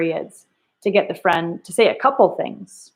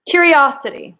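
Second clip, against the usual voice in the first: curious tone; 7 semitones higher, 3 dB louder than usual. Shown as a demonstration. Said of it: "that's how we're supposed to read it".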